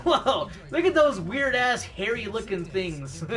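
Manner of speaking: laughing through a mock alien gawk. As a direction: giggle while voicing the gawking aliens. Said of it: "they're like".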